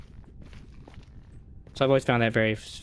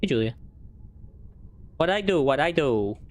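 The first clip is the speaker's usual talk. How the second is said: indignant surprise; 6 semitones higher than usual. Real, not acted. Targeted by blight in game.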